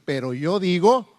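firm declaration rising at the end; intense, with authority. Acted. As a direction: quote it as a bold challenge. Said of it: "está intenso". (declaración intensa y con autoridad)

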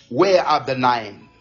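lightly voiced solemn question, pitched low; quoting Jesus. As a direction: ask it low and weighty, as scripture quoted. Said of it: "And he said".

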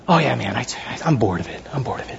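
buddy dismissing the game he pushed, low and bored; bored friend. Retold or imitated. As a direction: shrug it off as the jaded friend. Friend loses interest in game.

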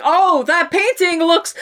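awkward, flustered bad acting, laughing through it. Sam badly covering with Sarah, mock flustered bad acting. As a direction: fumble the cover story. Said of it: "he just so badly is like".

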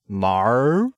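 drawn-out Australian "no", heard as "mar"; exaggerated Australian vowel; Australian accent. Shown as a demonstration. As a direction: stretch one word into many vowels, Australian style. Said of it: "Australians say".

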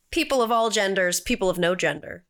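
ringmaster calling the crowd; grand entrance announcement. Acted. Host opens show like ringmaster.

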